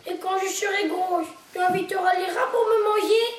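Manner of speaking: high, loud crying outburst; tearful cry. Acted. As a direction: cry out through tears. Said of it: "cria-t-elle les yeux pleins de larmes".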